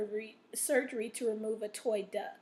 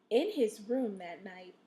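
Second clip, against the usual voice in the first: expressive storybook reading with weighted phrases; interesting read-aloud. Shown as a demonstration. Teacher modeling reading for students, expressive storytelling. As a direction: read it to keep young listeners interested. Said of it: "notice how I made that interesting".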